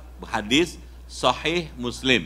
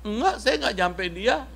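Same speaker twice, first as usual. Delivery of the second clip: laughing denial; 7 semitones higher than usual. Acted. Abu Musa answering with laugh.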